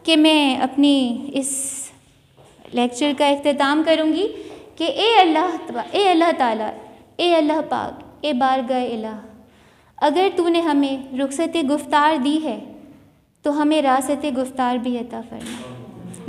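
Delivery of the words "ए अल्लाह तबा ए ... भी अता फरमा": prayer. Real, not acted. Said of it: "और इस दुआ के साथ".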